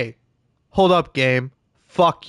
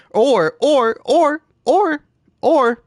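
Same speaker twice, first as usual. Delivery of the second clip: seal impression; 9 semitones higher, slower than usual. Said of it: "love doing that seal impression".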